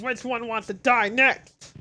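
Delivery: slow, menacing lightly voiced brute; Nappa voice. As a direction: copy the villain line, slowly and menacing. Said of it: "I got a decent Nappa voice".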